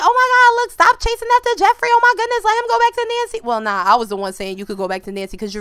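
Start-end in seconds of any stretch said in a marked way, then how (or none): 0.0-3.4 high mocking commenter voice. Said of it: "They was like".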